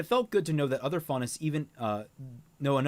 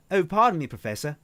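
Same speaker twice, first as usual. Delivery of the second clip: put-on a louder retake in an Australian accent; 4 semitones higher, 6 dB louder than usual. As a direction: redo the apology with Australian vowels. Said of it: "I gotta get Australian".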